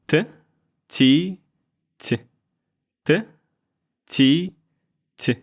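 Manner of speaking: "т" with a breathy "i" release; "т" whispered so the "ti" shows through; whispered soft t. Shown as a demonstration. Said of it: "sounds like I when you whisper it".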